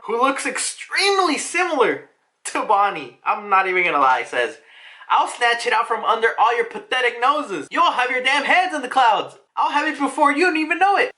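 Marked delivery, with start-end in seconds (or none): 5.1-11.1 hint of Big Mom. Voicing Big Mom's boast.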